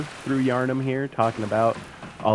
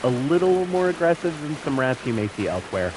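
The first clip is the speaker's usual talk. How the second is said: upbeat real estate agent pitch; realtor voice; 3 semitones higher than usual. Acted. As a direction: sell the neighborhood like a realtor. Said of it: "the realtor voice".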